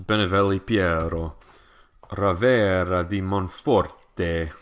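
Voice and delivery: Italian name. Shown as a demonstration. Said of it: "I am drinking a".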